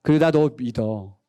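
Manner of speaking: slow, very low reassurance; trusting parent. Acted. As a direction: tell your child you trust them, low and unhurried. Voicing a parent's trusting words. (낮고 느긋하게 믿어 주는 부모 말투)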